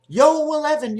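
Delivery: loud, high-pitched table shout; high hollered gambler's cry; screamed craps call. Retold or imitated. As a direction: call the roll out across a casino. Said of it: "They're always screaming it out".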